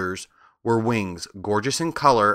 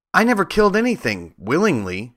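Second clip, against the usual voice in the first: sobbing; 7 semitones higher than usual. Acted. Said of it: "she sobbed".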